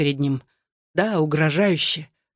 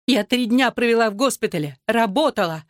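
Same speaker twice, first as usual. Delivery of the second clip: high-pitched indignant outburst; shrieked protest; 5 semitones higher than usual. A narrator's reading. Wife defends three days at the hospital, shrieked narrated protest. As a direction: push the pitch up, protesting sharply. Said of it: "взвизгнула она".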